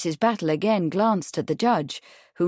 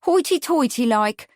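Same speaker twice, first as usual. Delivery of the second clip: higher-pitched, disdainful witness voice; sniffy disdain; 6 semitones higher, 4 dB louder than usual. A narrator's reading. Witness describing the men who ignore her, sniffy. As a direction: add it with a huffy, raised voice. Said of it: "she sniffed".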